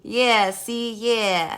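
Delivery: attempted gangster voice that turns cowboy; tough-guy mobster drawl, half-hearted; mobster accent. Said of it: "now say it in a mobster accent".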